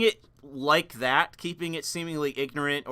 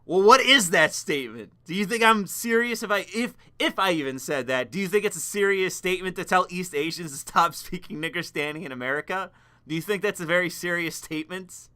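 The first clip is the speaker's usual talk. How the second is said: incredulous retort; 3 semitones higher, 4 dB louder than usual. Pretend. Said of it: "And it's like".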